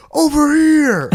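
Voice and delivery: high, loud sneering villain voice; taunting Grinch. Acted. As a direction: call him out like a cartoon villain.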